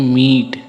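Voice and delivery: मीट with a clear, drawn-out ee; long ee. Shown as a demonstration. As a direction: stretch the vowel in मीट. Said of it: "दीर्घ में जो सो ई का ध्वनि स्पष्ट".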